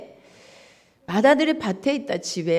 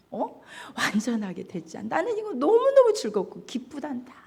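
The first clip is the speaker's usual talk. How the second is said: tender father; 5 semitones higher than usual. Acted. Father tenderly persuading his son.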